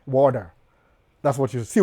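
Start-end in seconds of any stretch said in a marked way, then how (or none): 0.1-0.5 "water" pronounced wo-da. Shown as a demonstration. Summing up the lesson for viewers, "water" with D. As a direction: put a d in the middle of "water". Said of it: "da na Y".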